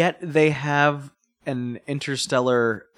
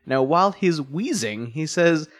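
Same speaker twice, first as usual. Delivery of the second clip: usual speaking voice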